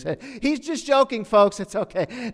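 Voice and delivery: high, loud false cheer with a laugh; public relations handler. Acted. PR handler excusing Jesus to the folks, loud nervous cheer. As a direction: laugh it off loudly for the crowd. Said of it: "The public relations".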